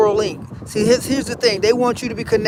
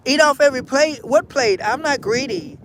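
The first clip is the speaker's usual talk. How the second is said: put-on confused kid; 4 semitones higher than usual. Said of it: "kid answers confused".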